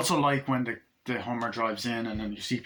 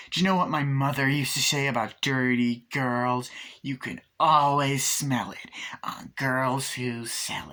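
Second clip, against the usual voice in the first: acted scolding; slower than usual. Acting out Tiffany's scolding.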